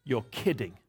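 low, soft aside of disbelief; disbelieving reply. Retold or imitated. Man looking up to answer the Lord, soft disbelief. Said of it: "I looked up and I said".

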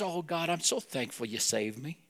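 softly imitated simple thanks; sweet, innocent prayer. New believer thanking God, sweet and innocent. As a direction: pray it softly and simply, like a newcomer. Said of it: "And so sweetly, so innocently".

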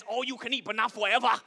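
"All you can eat" high and loud in a put-on Asian accent; the buffet sign read in a mock Asian accent. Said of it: "Sign says".

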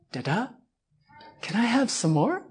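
soft imitation of a pleading toddler; softly milk it like a little child; wheedling three-year-old. Three-year-old in a parent's lap asking for treats, mock wheedling. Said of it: "She would really milk it".

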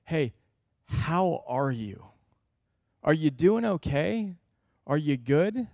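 caring check-in. Retold or imitated. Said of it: "sat down with somebody and go".

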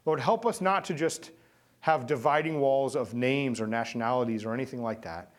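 steady earnest pastoral prayer; closing prayer. Real, not acted.

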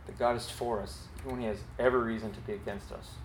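soft, fast echo of the line; quiet repeat. Shown as a demonstration. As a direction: say it again gently, letting it sink in. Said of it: "And grace means".

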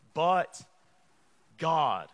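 emphatic. Acted. Preacher stresses turning point.

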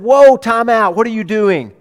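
loud, high, bossy gatekeeper voice; officious disciple barking to stop the kids; disciples shooing children. Acted. Disciples turning children away from Jesus, loud and bossy. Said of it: "and the disciples said".

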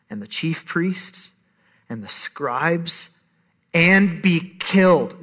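slow, measured reading with long pauses; grave, unhurried Bible reading; solemn scripture reading. Acted. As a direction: let each phrase land slowly. Reads scripture slowly.

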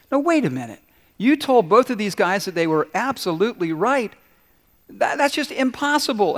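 high, protesting wife in disbelief; sage's wife protesting in disbelief; incredulous protest. Retold or imitated. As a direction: object like a baffled wife.

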